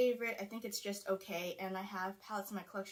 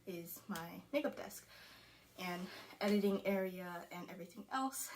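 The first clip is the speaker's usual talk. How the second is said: out of breath; 2 semitones lower than usual. Real, not acted. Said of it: "And I'm getting out of breath".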